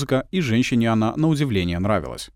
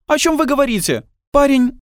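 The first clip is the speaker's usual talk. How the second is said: indignant; 6 dB louder than usual. A narrator's reading. Julia outraged by accusation.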